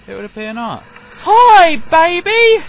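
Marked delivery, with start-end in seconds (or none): 1.2-2.6 high, loud sing-song hello; mock sweet greeting. Gamer greets a monster with a loud high cooing hello.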